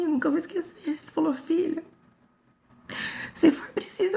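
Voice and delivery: fighting back tears while recounting the worst day; crying. Real, not acted. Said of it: "Eu achei que eu não ia chorar fazendo esse vídeo".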